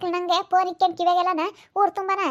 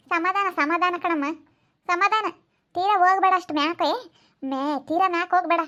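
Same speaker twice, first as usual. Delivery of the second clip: calming plea. Acted. Calming a quarrel.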